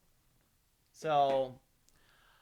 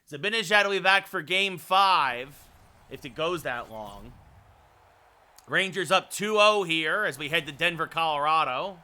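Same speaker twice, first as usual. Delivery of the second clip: measured hockey announcer delivery; broadcast game preview. Pretend. Streamer previews Game three of the Stanley Cup Final, announcer delivery.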